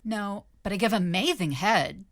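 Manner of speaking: high, flirty groupie voice; trying to sound sexy. A narrator's reading. Groupie propositions the sick rock star, hammed-up sexy. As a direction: offer it as seductively as you can. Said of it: "as sexily as possible".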